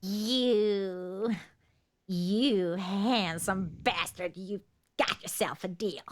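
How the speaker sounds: low, slippery dealer voice; sly salesman voice. Acted. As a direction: lowers into a sleazy merchant. GM voices scheming salesman character.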